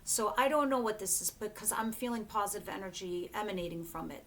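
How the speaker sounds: ordinary talk, nothing marked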